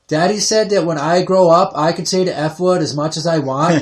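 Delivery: a hint of a proud kid announcing it; little girl voice. Dad quoting his three-year-old to grandma, lightly voiced chirpy child. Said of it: "retelling daughter's words at grandma's".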